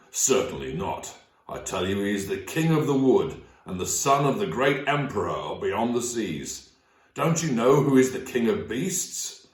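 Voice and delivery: a touch of stern correction; sternly. Acted. Mister Beaver corrects Lucy about Aslan, mildly stern. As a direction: set her straight, mildly firm. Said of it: "said Mister Beaver sternly".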